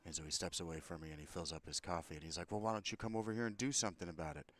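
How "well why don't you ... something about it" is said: retold shout. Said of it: "shouting at me again from over there".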